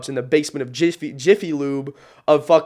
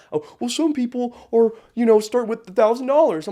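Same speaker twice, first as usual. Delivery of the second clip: a higher, mocking whine; mock whiny excuse; 8 semitones higher, 4 dB louder than usual. Mocking people who complain about starting money, higher whine. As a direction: parody the excuse, sneering at it.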